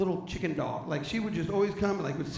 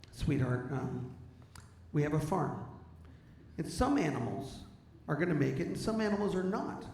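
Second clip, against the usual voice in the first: sweetly; 6 dB quieter than usual. Retold or imitated. Wife gently telling husband they won't pay for the vet, sweet soft voice. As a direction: explain it gently like to a child. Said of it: "very sweetly".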